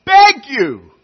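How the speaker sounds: slow, loud, high pleading plea; the Lord imploring his people, slow and loud; God pleading. Acted. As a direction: beg as God would, drawn out. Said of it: "God says".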